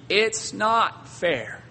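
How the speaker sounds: whiny complaint. Retold or imitated. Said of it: "our thoughts must never be".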